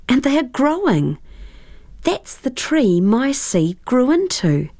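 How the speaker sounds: put-on high, eager child's voice; bubbling with wonder; excited girl. Tara excited about the trees.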